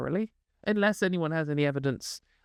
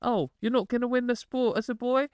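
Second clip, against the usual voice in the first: lightly mocking imitation, higher on the imagined advice; mock quoting; 5 semitones higher than usual. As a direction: mimic his argument with a raised pitch. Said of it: "and he's like".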